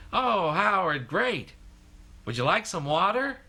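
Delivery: mock the friends' cheery tact; falsely encouraging. Companions politely hiding their real opinion.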